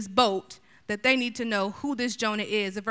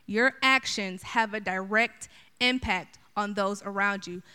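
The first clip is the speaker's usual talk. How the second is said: Your actions slowed and stressed word by word; preacher repeating his lesson, slow and weighty; slow emphatic repeat. Real, not acted. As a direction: lean on "actions" slowly. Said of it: "My third lesson from Jonah".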